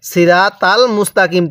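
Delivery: সিরাতাল মুস্তাকিম quickly, with light t and short vowels; সিরাতাল মুস্তাকিম in everyday unstretched sounds; common mistake. Shown as a demonstration. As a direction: rattle off সিরাতাল মুস্তাকিম without emphatic letters. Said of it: "এই জায়গার মধ্যে ভুল করি".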